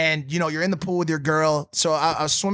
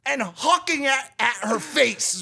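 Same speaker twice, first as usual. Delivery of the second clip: laughing disbelief; 8 semitones higher, slower than usual. Real, not acted. Realizing he threw a rat.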